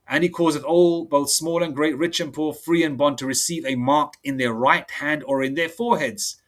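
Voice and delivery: slow, measured preaching read; solemn preacher reading verse; scripture reading. Acted. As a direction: lay out each line of scripture deliberately. Rereads the verse.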